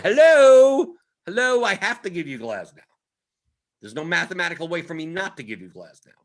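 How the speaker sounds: high, loud "Hello, hello" then settling; a machine losing patience with its user; exasperated optimizer. Pretend. Optimizer scolding the user who blocked Glasnow, mock exasperated high voice.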